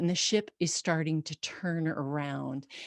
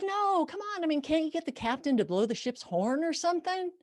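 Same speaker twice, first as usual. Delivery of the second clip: pushy husband; 11 semitones higher, faster than usual. Retold or imitated. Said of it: "he's like".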